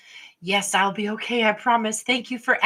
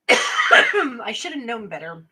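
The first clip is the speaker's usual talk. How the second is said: laughing; 4 dB louder, slower than usual. Real, not acted. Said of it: "have my mouth full".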